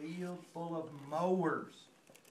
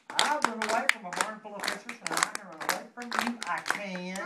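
louder, quick bragging chant; cheeky runaway taunting the mowers; boastful cry; 4 dB louder, faster than usual. Acted. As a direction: rattle it off, showing off. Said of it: "He cried".

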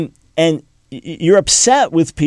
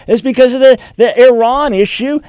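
louder and higher, driving the point home; emphatic; 8 semitones higher, 6 dB louder than usual. Real, not acted. Telling Ann Coulter the real reason, louder and higher. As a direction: hit Iran issue hard.

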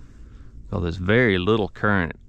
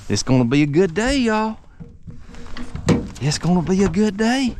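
excited; 9 semitones higher than usual. Real, not acted. Celebrating the catch.

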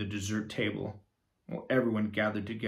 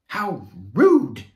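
quacked; 2 semitones higher, 13 dB louder than usual. Acted. Platypus guest offended by the monster remark, quacking. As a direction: quack it out indignantly. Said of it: "quacked the party guest".

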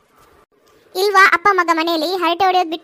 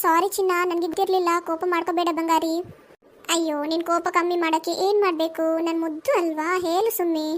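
softer, tender pleading; coaxing sweet talk; 5 dB quieter than usual. Acted. Husband softly coaxes his upset wife with pet names. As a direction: soothe her with pet names.

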